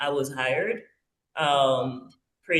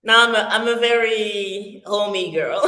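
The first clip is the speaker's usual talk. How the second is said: said through a laugh, a bit louder; 3 semitones higher, 4 dB louder than usual. Real, not acted. Guest admitting to the hosts she's a homebody, laughing. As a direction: laugh it off, amused at herself. Laughs at her own answer.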